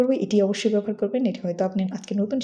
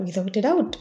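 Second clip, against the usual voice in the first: "without a doubt" said firmly, rising on doubt; emphatic intonation; much slower than usual. Shown as a demonstration. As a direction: put conviction into "without a doubt". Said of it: "খুব জোর দিয়ে ইন্টোনেশনটা একটু ঠিক রাখার".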